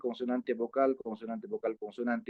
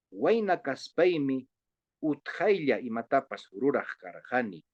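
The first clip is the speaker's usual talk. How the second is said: model reading. Shown as a demonstration. Teacher reads a short Quechua passage for colleagues, model reading. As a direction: read the Quechua line out for the class. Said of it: "me leen todos, colegas, esta partecita".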